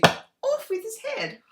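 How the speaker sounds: high shrieking royal command; Blackadder Queen impression. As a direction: bellow it like a petulant queen. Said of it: "the one out of Blackadder, you know, that Miranda Richardson played".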